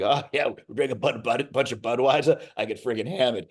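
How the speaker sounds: put-on heavy Boston accent. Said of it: "three lines of Bo-, as heavy as I could go".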